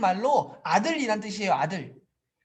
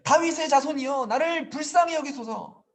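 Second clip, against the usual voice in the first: emphatic, slightly raised preaching voice; mild retold cry; 3 semitones higher than usual. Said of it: "더 크게 소리 지릅니다".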